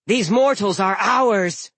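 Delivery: high, loud, slow growl. Acted. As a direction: growl it out like a giantess. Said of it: "growled Grasping Wave".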